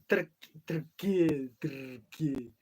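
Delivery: slow "Turk-, Turkey", the first syllable clipped then repeated; Turkey said slowly as "tki", the vowel nearly dropped; local way to say Turkey. Shown as a demonstration. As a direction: carefully sound out Turkey. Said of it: "that's an awesome language".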